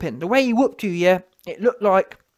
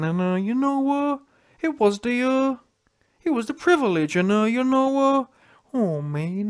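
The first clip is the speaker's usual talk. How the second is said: mock whiny Wilder. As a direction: mimic a sulking fighter complaining, dragging the words. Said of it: "Wilder crying and whining".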